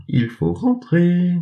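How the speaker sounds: put-on little girl rousing her sleepy dog, joyful. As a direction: wake the lazy dog up happily. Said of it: "lui dit-elle joyeusement".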